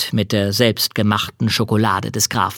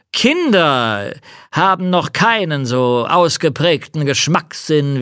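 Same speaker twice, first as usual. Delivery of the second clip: count voice; 4 semitones higher than usual. Acted. Count, slow and higher.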